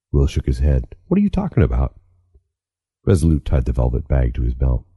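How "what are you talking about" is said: put-on high, bewildered boy; young boy voice. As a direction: ask it like a confused kid. Frightened boy protests.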